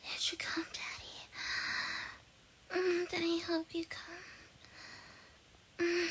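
pillow talk. Acted. Soft afterglow, saying good night.

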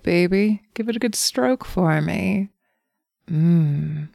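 lightly voiced teasing temptress; a hint of a seductive demon; succubus voice. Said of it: "Follow my little succubus voice".

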